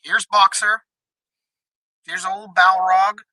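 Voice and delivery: thin, tinny voice like through a tin can; tin can sound. Real, not acted. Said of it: "Are you talking through a tin can?".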